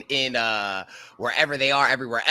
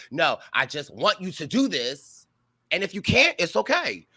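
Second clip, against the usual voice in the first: imitating Vinny; 5 semitones higher than usual. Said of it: "And Vinny was like".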